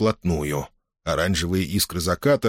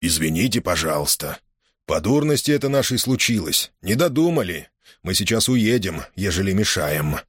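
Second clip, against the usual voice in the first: fake sweet voice. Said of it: "притворно сладким голосом".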